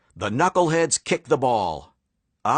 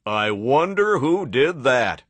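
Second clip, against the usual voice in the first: fan voice. Acted. Fans in bleachers.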